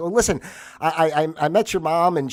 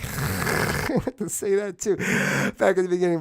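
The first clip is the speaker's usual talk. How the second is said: laughing retake; 4 semitones higher than usual. Shown as a demonstration.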